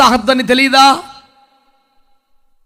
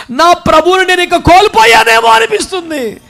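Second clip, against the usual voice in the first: higher, rising cry of loss; anguished lament; 6 semitones higher than usual. Acted. Mary laments losing her Lord.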